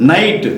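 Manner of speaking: "నైట్" with the vowel running straight into T; silent G. Shown as a demonstration. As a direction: say "నైట్" with no G before the T. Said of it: "ఇక్కడ జీ పలకలేదు".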